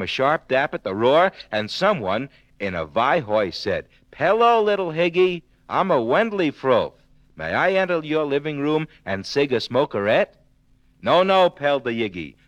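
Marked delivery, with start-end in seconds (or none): 4.1-10.4 sly wolf. Acted. Wolf voiced at the door. 11.0-11.5 little pig. Acted. Pig refuses the wolf.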